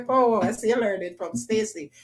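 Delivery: ordinary delivery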